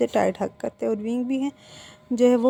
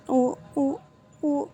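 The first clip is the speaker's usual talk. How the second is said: frightened stammer; 4 semitones higher, much slower than usual. Acted. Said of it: "अटकना बंद करो".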